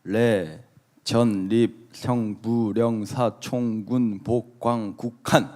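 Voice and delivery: reading syllables in reverse order, slowly; halting, one syllable at a time; backwards speech. Real, not acted. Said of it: "거꾸로 읽어야 돼".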